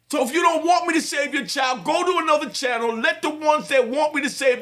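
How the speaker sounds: fast, dismissive push; rapid-fire. Real, not acted. Father telling doubters to switch channel, rapid-fire. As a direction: rattle it off, take it or leave it. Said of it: "Yeah, I'm passionate".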